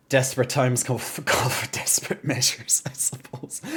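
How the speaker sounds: half-joking whispered proverb. Real, not acted. Streamer whispers a wry aside to chat about playing Hello Kitty.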